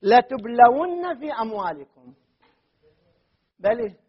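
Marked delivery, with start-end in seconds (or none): 0.0-2.1 slow, louder recited verse; Quranic recitation. Shown as a demonstration. Teacher quoting a verse to the class, recited. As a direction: chant the verse slowly. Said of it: "لذا قال".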